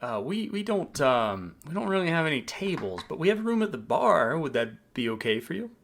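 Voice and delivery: eager maitre d'. Acted. Maitre d' seats the traveller at the bar, eagerly. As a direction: charm the guest while making excuses.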